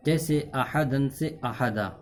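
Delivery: احدن said with nunation, then احدا ending in a long a; pausal form demo. Shown as a demonstration. Teacher shows students the pause form, slowly. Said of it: "دو زبر پر وقف کرنا ہو تو ایک زبر کے ساتھ الف پڑھا جاتا ہے".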